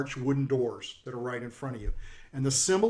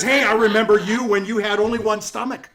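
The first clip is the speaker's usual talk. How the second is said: high, loud insult-comic voice; pitched-up showman delivering jibes; brash heckling jokester; 5 semitones higher, 7 dB louder than usual. Acted. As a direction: play a boisterous greeter roasting the guests. Jokester figure roasts guests.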